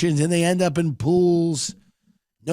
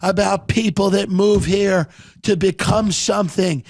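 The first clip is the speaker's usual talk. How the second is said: Rick speech; 6 semitones higher than usual. Retold or imitated. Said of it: "He's like".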